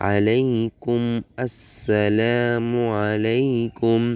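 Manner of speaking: slow, measured reciting with stretched vowels; dua recitation. Shown as a demonstration. Teacher models the joined phrase for learners, slow recitation. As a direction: join the syllables into a drawn-out recitation.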